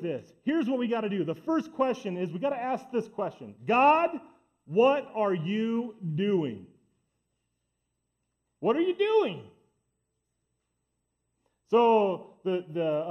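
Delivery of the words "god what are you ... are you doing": pleading prayer. Pretend. Worshipper crying out to God, anguished plea. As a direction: drag the question out, then cry it upward.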